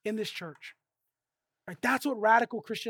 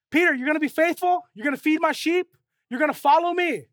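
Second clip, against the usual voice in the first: a little higher and louder, pressing Peter; lightly voiced Jesus, probing; voicing Jesus; 4 semitones higher, 4 dB louder than usual. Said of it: "and Jesus goes".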